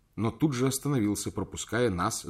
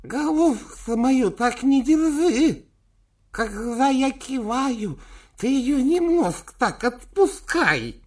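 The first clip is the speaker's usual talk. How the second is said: high, loud, slow grumpy elder; cranky old man; 7 dB louder, slower than usual. Acted. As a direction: scold like a frail old boss. Old man scolding nurse.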